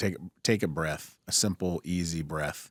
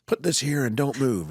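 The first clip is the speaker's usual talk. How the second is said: loud, higher-pitched mock command; mock stern order; 8 semitones higher, 5 dB louder than usual. Surgeon to the person in training, mock stern order.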